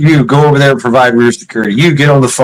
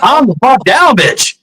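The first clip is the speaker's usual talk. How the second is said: higher-pitched, retold angry command; mock-exasperated, pitch raised; exasperated order; 12 semitones higher than usual. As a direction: act out snapping at someone hysterical. Retold snapping at hysterical bystander.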